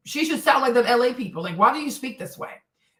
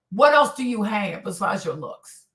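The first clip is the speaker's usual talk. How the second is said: normal talking voice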